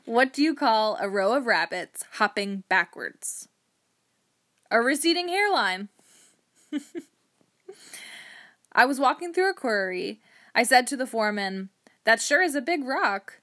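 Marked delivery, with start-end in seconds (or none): 0.1-5.9 dad-joke delivery. Acted. Host shares favorite punny jokes with listeners, playful joke-telling. 8.7-11.7 louder, lifted storytelling setup; dad-joke delivery. Acted. Host tells a quarry joke to amuse listeners, playful joke-telling.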